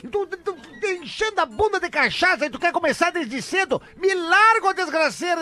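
angry yelling. Retold or imitated. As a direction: blow up at the caller. Bar owner exploding at caller.

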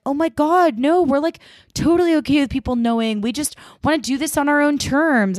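put-on high, fast valley-girl gush; gushing teen girls. Audrey and Aki reassuring Max, high gushing. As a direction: hurry to reassure, bubbly.

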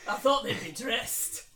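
put-on slow Scottish accent; Dean. Newcomer surprised by the group, slow Scottish accent. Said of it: "Dean Scottish".

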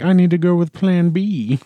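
a spy switching plans; scheming hero aside. Retold or imitated. Hero muttering to himself about Plan B, sly aside.

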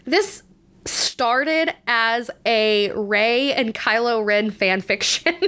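slow words breaking into laughter; laughing. Real, not acted. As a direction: giggle through it. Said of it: "I'm laughing while I say this".

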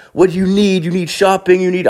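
high, eager imitated vendor; pushy high-voiced dealer impression; beach hustler. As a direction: pitch wares in a high put-on voice. Beach dealer offering his wares.

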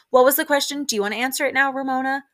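high, loud imitation of an impatient guest; mock pointed interruption. Acting out Sonja's pointed interruption.

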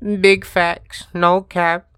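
loud, high hype-man voice; loud mock hype. Echoing friend in a loud voice.

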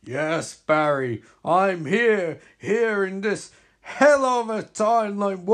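hammy villain boasting over his foe; gloating villain. Acted. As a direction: lord it over the beaten hero. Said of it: "Reverse Flash reply".

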